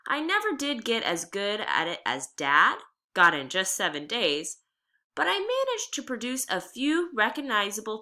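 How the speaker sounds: reading a chapter aloud to the class; steady, clear read-aloud voice; story narration. A narrator's reading. Reads the novel aloud.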